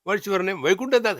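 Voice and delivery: high, loud gatekeeper exchange; hammed-up question and answer; acted questioning. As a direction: raise pitch and volume for a comic interrogation. Acted interrogation at heaven's gate.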